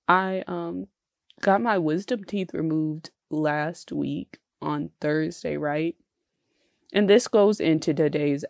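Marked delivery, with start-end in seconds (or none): 1.4-5.9 sore mouth. Real, not acted. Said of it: "my mouth is killing me".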